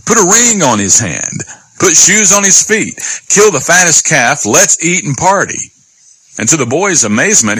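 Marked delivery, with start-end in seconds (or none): 0.1-5.7 lifted pitch, father calling out orders; celebratory orders. Acted. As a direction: order up the party with mild excitement. Father giving festive orders.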